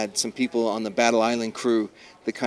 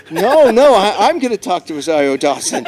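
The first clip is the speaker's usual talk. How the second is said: mock selfish insistence; 8 semitones higher, 10 dB louder than usual. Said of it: "I'm like".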